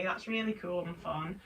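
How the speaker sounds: dry, understated sarcasm; deadpan mock approval; sarcastic. Real, not acted. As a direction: say it softly, not meaning it. Sarcastic take, then a sincere one.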